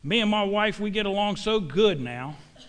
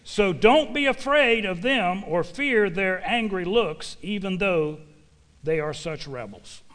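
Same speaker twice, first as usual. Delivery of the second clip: slow, weighty preacher's reading; slow, deliberate Bible recitation; emphatic scripture reading; 4 dB louder than usual. Real, not acted. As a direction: proclaim the verse, punching key words. Reads scripture aloud to congregation.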